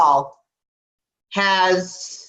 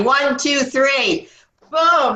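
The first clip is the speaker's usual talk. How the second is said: clap countdown; 5 semitones higher, much slower than usual. Real, not acted. Leading team clap countdown.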